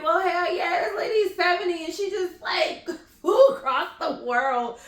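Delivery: high-pitched, animated comeback; animated retort. Retold or imitated. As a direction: retell it as an excited, emphatic comeback. Acting out her retort to critics.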